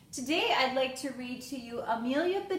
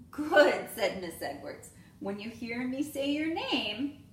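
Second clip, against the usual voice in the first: lively storybook read-aloud with voiced characters; reading to children; 3 dB louder than usual. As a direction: read it like story time for little kids. Teacher reads picture book aloud.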